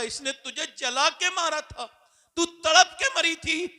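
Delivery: loud, high and slow proclamation; booming pronouncement. Acted. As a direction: declare it slowly with weight. God's voice declares. (अल्लाह का धीमा, ऊँचा ऐलान)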